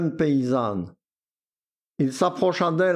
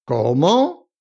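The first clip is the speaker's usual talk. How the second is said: hollow voice; 6 dB louder than usual. A narrator's reading. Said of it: "d'une voix caverneuse".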